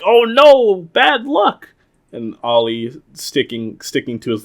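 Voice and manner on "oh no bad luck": high mock dread. Rangers fearing bad luck, high mock dread. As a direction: whimper it in fake superstition. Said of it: "they're like".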